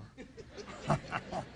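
low, soft, breathy snicker; sly chuckle. Acted. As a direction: snicker to yourself. King gloats over absent husband.

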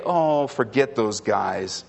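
low, offhand scoff from the devil; dismissive Satan. Acted. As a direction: wave them away in a low voice. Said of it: "have Satan come along and say".

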